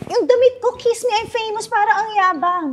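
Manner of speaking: high-pitched complaining sister; whiny big sister. Retold or imitated. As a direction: whine like a spoiled sister who won't get out of the car. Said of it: "sabi ng ate".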